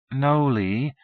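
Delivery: a touch of exasperation; exasperated. A narrator's reading. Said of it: "sounding exasperated".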